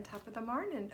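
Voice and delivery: playful attempt at British that comes out Irish; a hint of stage Irish; mock Irish accent. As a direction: toss off a light Irish greeting. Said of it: "Oh no, that's Irish".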